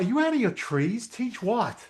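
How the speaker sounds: high, disbelieving are you nuts; incredulous retort. Retold or imitated. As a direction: play back your own shocked reply. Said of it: "I'm like".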